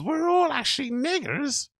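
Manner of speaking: high-pitched mock protest; high, incredulous put-on voice; mock excuse-making. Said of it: "giving you one of those ones".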